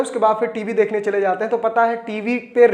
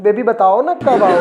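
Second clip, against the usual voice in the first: coaxing newlywed husband, louder and eager; sweet pleading; 4 dB louder than usual. Retold or imitated. Newly married husband on the phone to his wife, pleading sweetly. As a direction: beg her sweetly to come home. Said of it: "पति phone करके कहता है".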